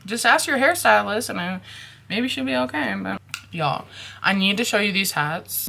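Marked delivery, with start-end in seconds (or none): 0.1-2.9 imitating the stylist. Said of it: "she was just like".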